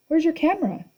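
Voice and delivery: high, nervous Grover voice; nervous satyr boy. A narrator's reading. Grover asks the old lady, nervous and high. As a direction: ask it jittery and high.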